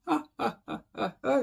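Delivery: light, high, soft "ah-ah-ah" chuckle; amused chuckle. Real, not acted. Teacher tripping over French grammar, amused chuckle. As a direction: chuckle at your own slip, high and quiet.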